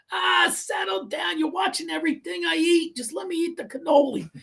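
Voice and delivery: dad brushing her off. Retold or imitated. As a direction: play the caught husband shrugging it off. Dad brushing off his wife.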